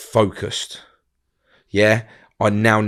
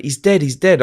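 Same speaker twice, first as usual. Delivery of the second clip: raised, urgent mock cry; higher-pitched retold cry; retold screeching; 5 semitones higher, 4 dB louder than usual. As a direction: imitate a screeching mum at half force. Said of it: "it was screeching".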